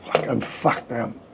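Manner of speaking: breathy, near-whispered curse from sheer tiredness; worn-out mutter. Real, not acted. Telling his live viewers he is exhausted, in a breathy mutter. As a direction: let it slip out under the breath, spent. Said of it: "I'm knackered".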